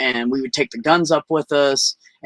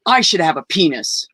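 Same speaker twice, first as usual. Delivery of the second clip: put-on defiant child; 3 semitones higher than usual. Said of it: "put my fist down by my side".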